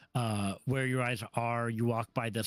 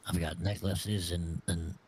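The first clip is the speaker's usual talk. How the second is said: secretive raspy sales murmur; 6 semitones lower than usual. Acted. GM voices shady tiefling merchant.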